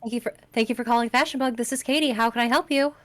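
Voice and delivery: bright, fast phone greeting at work; customer service voice. Shown as a demonstration. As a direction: answer the shop phone all polite and quick. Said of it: "It's me when I take my customer service voice".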